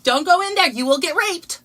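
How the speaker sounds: loud, high blunt warning; loud, high mock protester warning; definite and jarring. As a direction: hit it with flat certainty, loud. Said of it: "super definite and jarring".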